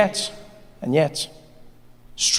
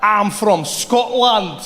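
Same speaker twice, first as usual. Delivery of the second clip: put-on Scottish accent; 3 semitones higher, much slower than usual. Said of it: "learn the Scottish accent".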